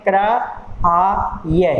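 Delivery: क्राई broken into क्र, आ, ये with gaps between; sounded out. Shown as a demonstration. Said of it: "क्राई को जैसे हमने आप ब्रैकेट में".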